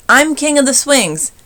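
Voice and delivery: high, loud boast; bully's boast. A narrator's reading. Sammy declares himself king of the swings, loud and boastful. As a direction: crow it like a little tyrant. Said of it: "yelled Sammy".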